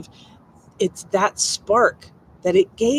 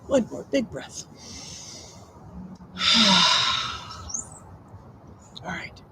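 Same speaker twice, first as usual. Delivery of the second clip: soft spa whisper; 5 dB quieter, faster than usual. Acted. Breathing cue before the meditation.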